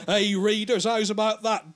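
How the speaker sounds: comic character addressing readers. Acted. Comic hero turns to readers after the beating, mock-triumphant.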